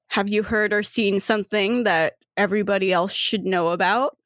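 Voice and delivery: understated, level sternness; controlled, mildly stern questioning; stern and calm. Acted. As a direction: question them calmly but firmly. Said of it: "very, like, stern, calmly".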